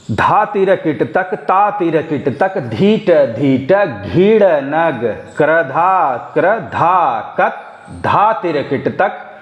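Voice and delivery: slow, rhythmic tabla recitation; slow bol recitation. Shown as a demonstration. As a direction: lay each bol on its beat. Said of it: "तो देखिएगा, फिर से पढ़ रहा हूँ".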